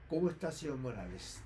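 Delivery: cool, distant formal greeting; an old friend greeting him like a stranger, coldly formal. Retold or imitated. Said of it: "En forma fría".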